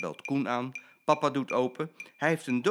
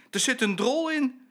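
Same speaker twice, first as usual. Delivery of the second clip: put-on disgusted child; 13 semitones higher, 6 dB louder than usual. Child discovers poo in box.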